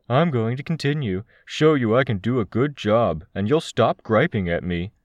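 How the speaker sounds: high, insistent female figure in narration; Crystal. A narrator's reading. Crystal tells Tristan she will keep helping, stubborn.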